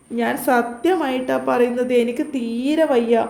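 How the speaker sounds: slow, pained put-on voice; faked weak pleading. Nilu insists to her captor she is ill, slow faked pained pleading. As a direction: sell the fake pain slowly. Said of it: "വേദന അഭിനയിച്ചു".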